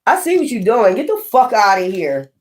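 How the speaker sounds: mock indignant dismissal; imagined confrontation. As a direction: act out calling someone out. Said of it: "you gonna be like".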